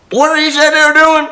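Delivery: high, loud shrill hick wife; hick lady. Retold or imitated. Hick wife yelling at her husband, high and loud. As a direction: belt it out like a rural housewife. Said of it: "And she goes".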